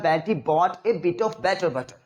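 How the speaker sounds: drawn-out twister in one breath; slow tongue twister. Shown as a demonstration. Teacher demonstrates the tongue twister, slow. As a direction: stretch the twister slowly. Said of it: "मैंने ये करवाया था".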